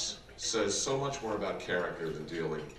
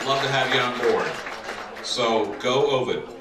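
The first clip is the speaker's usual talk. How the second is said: rally call; 6 dB louder than usual. Real, not acted. Rally cheer for candidate.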